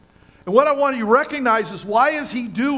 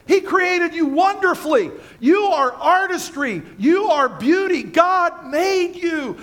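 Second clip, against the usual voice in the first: fervent exhortation; 5 semitones higher than usual. Real, not acted. Preacher exhorts the congregation, high and fervent. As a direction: lift them up with fervour.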